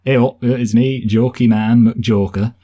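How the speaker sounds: lightly mocked northern English accent, drawn out slowly; slow, hammed-up northern comic; northern British accent. Host teasing a northerner about funny accents, mock northern British accent. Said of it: "in a northern British accent".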